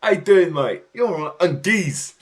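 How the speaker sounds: high, loud mock yob greeting; English yob. Streamer mimicking English lads greeting a mate, mock yobbish. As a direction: call out like an English lad.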